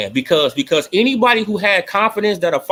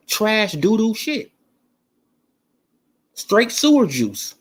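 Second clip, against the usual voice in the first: slow scornful put-down; 6 semitones higher, much slower than usual. Real, not acted. Dismissive punchline.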